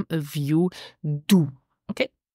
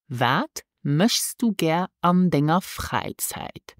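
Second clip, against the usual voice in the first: slow model phrase; slower than usual. Shown as a demonstration. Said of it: "This is".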